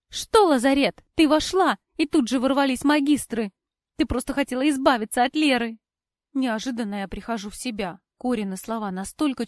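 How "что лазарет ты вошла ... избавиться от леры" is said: angry accusation. A narrator's reading. Cora accusing in quarrel.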